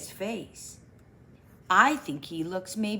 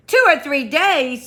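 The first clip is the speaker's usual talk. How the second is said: higher and louder echo in dismay; 6 semitones higher, 7 dB louder than usual. Acted. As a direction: repeat it aghast. Pooh's take.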